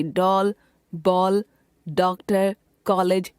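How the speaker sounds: vowel between ओ and औ in डॉल, बॉल, डॉक्टर, कॉलेज; डॉल, बॉल, डॉक्टर, कॉलेज with the English open o, unlike Hindi आ; English rounded o. Shown as a demonstration. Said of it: "ओ तथा औ के मध्य का".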